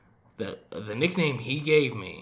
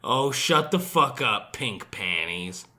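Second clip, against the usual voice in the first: slow, drawn-out mock put-down; retold dismissal; 3 semitones lower, slower than usual. Siblings to the upset kid, slow mock dismissal. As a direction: wearily tell the kid off, dragging it. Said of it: "I started getting upset, it was".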